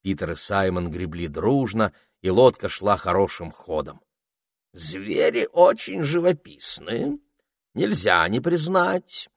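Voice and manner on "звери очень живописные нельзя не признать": judicious. A narrator's reading. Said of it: "рассудительным тоном произнёс попугай".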